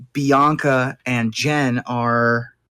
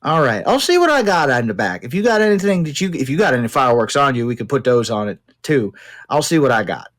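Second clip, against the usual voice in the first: tinkerer Hank; much faster than usual. Acted.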